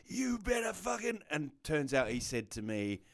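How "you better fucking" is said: mock threat. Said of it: "he goes".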